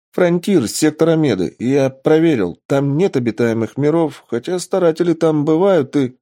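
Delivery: взволнованное пояснение. Acted. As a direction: explain it with excited urgency. Лаборант тараторит, пока его не прервут. (взволнованно поясняя)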